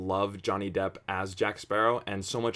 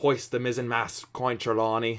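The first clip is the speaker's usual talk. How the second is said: put-on Cornish pirate accent; 2 semitones higher than usual. Reacting to a movie scene, switching accents: Cornish pirate voice. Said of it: "down to Cornwall where it gets more piratey".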